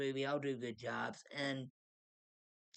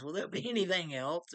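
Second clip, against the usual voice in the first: higher, louder put-on niceness; nicely imitated; 5 semitones higher, 5 dB louder than usual. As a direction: imitate a nice, helpful assistant, pitched up. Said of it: "nicely says".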